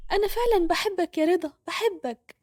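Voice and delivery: a gentle tearful I love you; tender confession. Acted. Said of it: "وهي ضمته بكل قوة وقالت".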